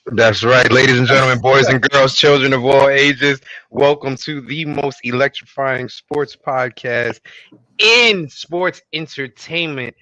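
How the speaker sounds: booming ring announcer intro; ringmaster. Pretend. Podcast host announcer opening.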